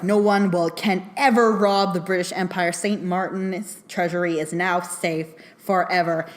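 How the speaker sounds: a lightly voiced pompous British official; mild imitation of a self-important banker; uppity Brit. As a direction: proclaim it smugly, just a touch posh in intent. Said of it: "uppity British guy".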